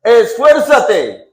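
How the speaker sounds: preacher's ringing charge; proclaimed command. Retold or imitated. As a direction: stretch it out as a rallying cry.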